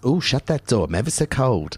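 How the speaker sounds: a touch of camp comic complaining of the cold; camp Larry Grayson. Retold or imitated. Host imitating Larry Grayson's act, mildly camp. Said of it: "one of them was".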